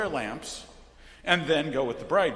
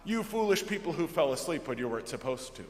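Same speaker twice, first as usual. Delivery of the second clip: mock scolding; faster than usual.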